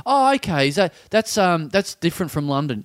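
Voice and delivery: nosy weirdo. Retold or imitated. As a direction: imitate a clueless, over-interested questioner. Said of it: "and she's like".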